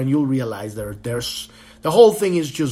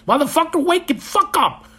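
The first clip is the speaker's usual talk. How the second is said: mock wake-up yell; 13 semitones higher, 3 dB louder than usual. Urgent wake-up call acted out.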